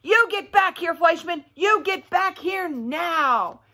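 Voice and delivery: high, hammed-up yell, slow at the end; a kid yelling after someone who walks away. Lulu yelling after Fleischman as he walks off, high mock yell. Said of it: "with Lulu loudly yelling back, yelling".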